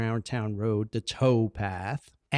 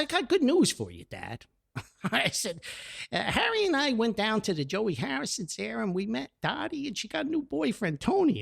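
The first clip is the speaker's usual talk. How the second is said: eager news; 9 semitones higher than usual. Retold or imitated. Telling father the news, eager.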